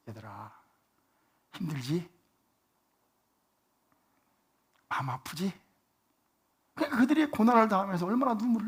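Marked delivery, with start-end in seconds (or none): 0.1-5.6 tender comfort. Shown as a demonstration. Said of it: "주님이 이렇게 말씀하셨다고 생각하지 않으세요?".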